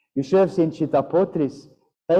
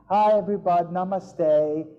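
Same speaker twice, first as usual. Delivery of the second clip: imitating a chirpy yoga teacher with "namaste" gliding to "-tay"; sing-song yoga class greeting, lightly mocked; mock yoga instructor; 4 semitones higher than usual. Teacher mocking a yoga instructor's bad namaste, light imitation. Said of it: "completely bad pronunciation of a namaste".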